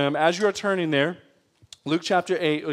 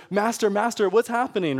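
higher, mock-frightened plea; mildly shaken; 4 semitones higher than usual. Disciples in the storm crying to Jesus, mildly shaken. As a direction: act out a shaken cry for help, lightly. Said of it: "they're kinda shaken".

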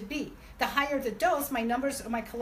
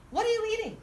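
astonished; 9 semitones higher, faster than usual. Retold or imitated. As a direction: ask it in total disbelief. Doctor stunned by mom's results.

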